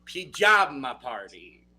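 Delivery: put-on slow, drawn-out Italian accent. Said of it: "I'm saying it in the best Italian accent I possibly can".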